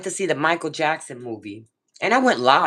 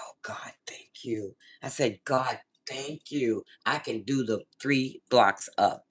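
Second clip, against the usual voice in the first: slow, soft, low thanks; relieved prayer; 4 semitones lower, 6 dB quieter than usual. Retold or imitated. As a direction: imitate weary relief, sinking low and soft. Retold relieved thanks to God.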